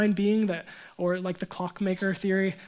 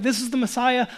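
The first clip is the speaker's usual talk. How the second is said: loud, higher declaration of the Messiah; emphatic; 4 semitones higher, 4 dB louder than usual. Retold or imitated. Preacher voicing John the Baptist, emphatic and loud. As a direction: announce him with certainty. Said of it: "He's emphatic".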